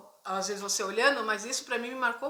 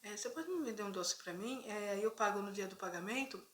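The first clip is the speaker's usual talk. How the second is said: humble request; 3 semitones lower, 11 dB quieter than usual. Retold or imitated. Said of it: "com toda humildade".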